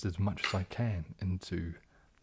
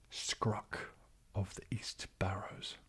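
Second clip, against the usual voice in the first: a soft ASMR whisper, softer than his chat; whispered on request; 5 dB quieter, slower than usual. Shown as a demonstration. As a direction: breathe the name out as a quiet whisper. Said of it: "Please say".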